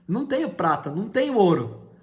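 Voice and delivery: loud, high, ringing proclamation; bold declaration. Acted. Pedro declares to the beggar, loud and ringing. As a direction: proclaim it with full force.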